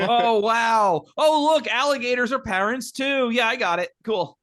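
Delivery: high mock amazement; sarcastic. Real, not acted. Mocking the baby gator metaphor, sarcastic high wonder. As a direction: fake being impressed.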